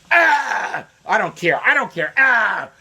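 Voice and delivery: high, loud shouted tantrum; angry tantrum. Retold or imitated. Neighbor refusing to hear the facts, shouting. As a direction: throw a childish fit. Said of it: "He just went".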